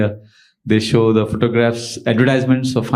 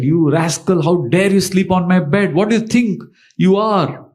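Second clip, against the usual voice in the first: raised pitch, acted indignant rebuke; scolding master; 6 semitones higher than usual. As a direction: lightly play an outraged master. Master lashing and scolding the servant.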